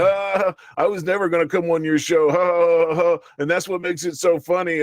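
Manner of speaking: imitating a streamer brushing off the host; mocking dismissal. Streamer shitting on host on air, mild mocking tone. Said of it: "shitting all over me, going".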